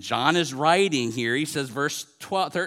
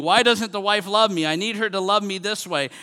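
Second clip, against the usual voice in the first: louder, higher protest; raised-voice grievance, acted from the pulpit; retold screaming; 7 semitones higher, 5 dB louder than usual. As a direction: imitate an exasperated spouse crying out. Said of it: "And the husband is screaming".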